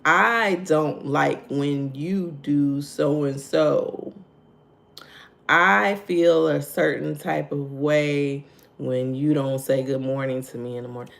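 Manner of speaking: measured, slowly spaced example statement. Shown as a demonstration. Coach models an I statement to listeners, measured. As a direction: state your feeling slowly and evenly. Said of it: "I statements instead of you".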